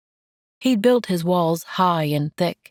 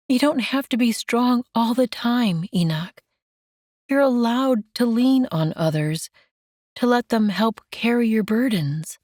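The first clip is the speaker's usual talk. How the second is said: lightly raised, tender woman's voice; gentle Mandy; 7 semitones higher than usual. Acted. Mandy comforting Enoch, lightly raised and tender.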